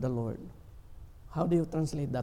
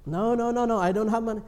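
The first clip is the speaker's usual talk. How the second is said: louder, firm fatherly no; a dad brushing off his kid, a bit raised; father refusing; 5 semitones higher, 5 dB louder, faster than usual. Retold or imitated. Father refusing child's request.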